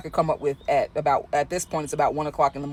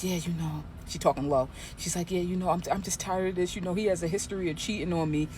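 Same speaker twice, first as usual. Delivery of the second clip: softer, hushed confiding; woman hushing her phone call in the waiting room; imitating low phone voice; 6 dB quieter than usual. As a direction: keep it down so the nosy stranger can't hear. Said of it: "now she's trying to whisper".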